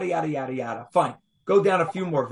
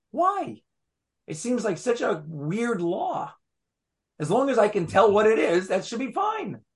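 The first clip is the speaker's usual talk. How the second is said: higher-pitched mock protest; puzzled objection; 3 semitones higher than usual. Teacher voicing a doubter of the weird law, puzzled protest. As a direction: object like a baffled student, pitch climbing.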